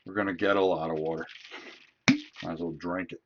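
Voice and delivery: talking around ice cubes; ice in mouth. Real, not acted. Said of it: "Sorry, I have ice in my, my mouth".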